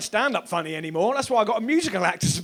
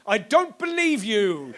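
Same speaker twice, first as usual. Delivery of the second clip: Victor Meldrew catchphrase; much slower than usual. Retold or imitated. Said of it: "with your catchphrase".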